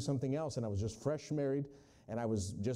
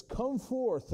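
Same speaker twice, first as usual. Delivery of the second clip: commanding call; 9 semitones higher, 3 dB louder than usual. Acted. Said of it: "He says".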